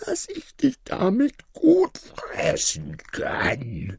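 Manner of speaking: wolf whispering right before he pounces; menacing wolf. Acted. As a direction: whisper the deadly punchline. Wolf reveals himself.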